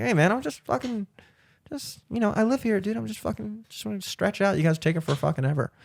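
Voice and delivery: mock-casual dude voice. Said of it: "I was like".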